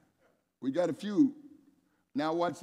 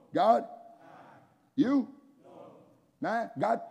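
high prompting calls; 6 semitones higher, slower than usual. Acted. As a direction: call the crowd for an answer. Prompting the crowd to answer.

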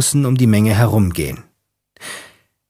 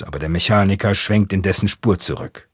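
ordinary delivery, nothing marked

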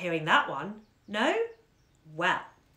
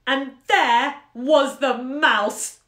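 louder, slow, drawn-out reveal; dramatic reveal; 6 semitones higher, 9 dB louder, much slower than usual. Acted. Storyteller springing the mouse on the spellbound children, dramatic slow reveal. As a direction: hit the reveal big and slow.

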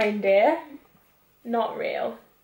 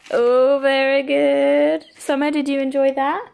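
mock impressed; 2 semitones higher, 5 dB louder than usual. Real, not acted. Reacting to a joke.

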